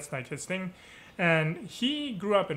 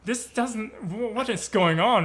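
stammering, higher-pitched bewilderment; perplexed; 5 semitones higher, 3 dB louder than usual. Retold or imitated. Dancer hears his friend switch to German, perplexed. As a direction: act out a brain that can't keep up. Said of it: "so perplexed".

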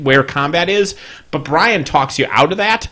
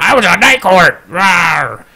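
John Larroquette; 2 semitones higher, 4 dB louder, slower than usual. Acted. Podcaster clowning as the actor turned dinosaur, silly roaring impression. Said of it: "That's my John Larroquette impression".

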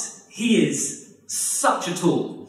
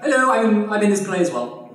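high, meek mock plea; a lightly voiced sidelined actor; ignored actor; 5 semitones higher, 4 dB louder than usual. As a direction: squeak out to be noticed. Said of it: "everyone else is like".

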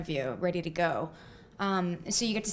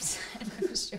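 laughing; 5 dB quieter than usual. Real, not acted. Laughing aside about Graham.

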